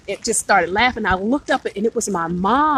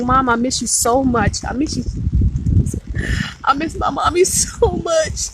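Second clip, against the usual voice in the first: retold crying; 4 semitones higher than usual. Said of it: "I just bust out crying".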